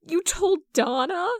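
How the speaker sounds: high, loud incredulous question; shocked disbelief. Acted. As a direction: blurt it out in alarmed disbelief. Jason learns Kyle told Donna.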